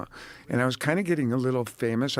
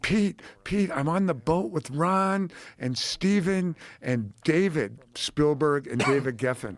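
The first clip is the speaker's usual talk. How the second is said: higher, slow excited call from a boat; a light imitation of an excited woman; excited woman caller; 3 semitones higher, slower than usual. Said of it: "she's like".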